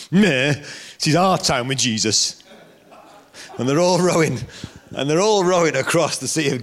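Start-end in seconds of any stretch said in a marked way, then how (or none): 0.1-2.4 sulky, put-out protest, drawn out slowly; mock-petulant "meh", then a slow complaint; grumbling disciples. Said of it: "The disciples must have been like".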